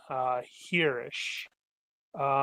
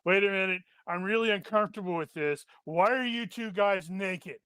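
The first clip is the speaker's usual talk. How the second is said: lightly acted demon, higher-pitched and bewildered; mock unease in a slightly raised voice; uncomfortable demon; 4 semitones higher, faster than usual. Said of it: "the demon has to be like".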